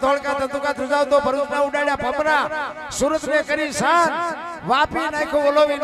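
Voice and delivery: folk poem recitation. Acted. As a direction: declaim the earthquake ballad to the crowd. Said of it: "એની તમને યાદી કરાવું".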